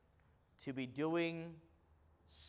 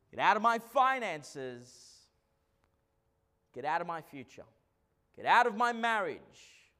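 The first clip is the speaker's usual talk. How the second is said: loud, commanding rebuke, hard on each "Get out"; rebuking the devil; 2 semitones higher, 6 dB louder than usual. Shown as a demonstration. Pastor showing the church how to rebuke the devil, loud command. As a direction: order the devil out of your house. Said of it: "You have to rebuke it".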